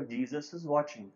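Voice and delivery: the distant voice, a little firmer. Retold or imitated. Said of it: "the voice became louder".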